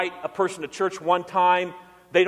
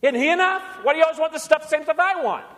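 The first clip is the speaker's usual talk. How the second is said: higher, needling skeptic taunting believers; the world's mocking voice; 8 semitones higher than usual. Preacher voicing the skeptical world questioning greedy Christians, higher and needling. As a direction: poke at the Christian with mock disbelief. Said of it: "The world says".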